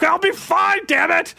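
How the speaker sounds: put-on high kid voice snapping at a parent; a kid shrugging off his dad, pitched high; annoyed kid. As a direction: brush off the worried parent like a kid. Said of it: "And I'm like".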